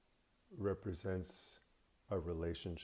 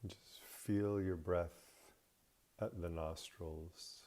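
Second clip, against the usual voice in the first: guided meditation. Acted. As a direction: ease the listener into rest, unhurried.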